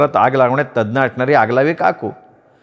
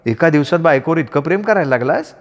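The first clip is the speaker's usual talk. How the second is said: scolding wife; 3 semitones higher than usual. Acted. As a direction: tell off a clumsy husband. Wife sarcastic.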